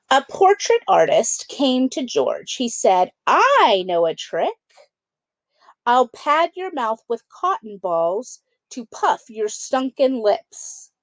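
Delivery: lively storybook read-aloud; children's book narration. A narrator's reading. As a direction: read it like bedtime story time. Reads picture book to kids.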